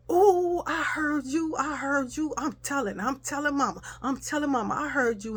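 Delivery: high, sing-song tattletale tease; taunting sister. Retold or imitated. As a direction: gloat like a kid about to snitch. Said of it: "my sister was like".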